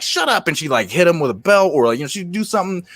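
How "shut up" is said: much higher snapped "Shut up"; imitating Mama Harrison. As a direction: play the strict neighborhood mom cutting a kid off. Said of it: "she'd be like".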